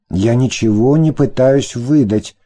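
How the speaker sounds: mild wailing protest, slowed; a hint of whining lament; understated plaintive denial. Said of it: "запричитал он".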